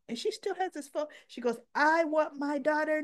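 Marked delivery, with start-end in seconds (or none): 1.7-3.0 imitating the mother laying down an ultimatum; demanding. Lulu demanding her daughter back.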